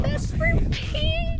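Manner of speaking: drawn-out high joyful call; excited exclamation. Real, not acted. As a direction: call out the peak's name in triumph. Celebrating the peak name.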